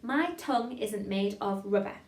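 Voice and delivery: careful, measured diction; tongue-twister demo. Shown as a demonstration. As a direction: model the line clearly for learners. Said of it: "Try that with me".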